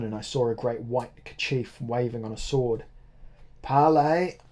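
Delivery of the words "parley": high, loud call of parley; cried out. A narrator's reading. Monsorbier calls out for a parley, loud and high. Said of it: "cried Monsorbier".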